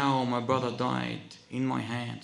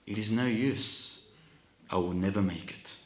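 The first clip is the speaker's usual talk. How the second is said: weak, crying voice; 2 semitones lower than usual. Acted. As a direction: speak feebly, a touch of tears. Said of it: "with a weak, crying voice".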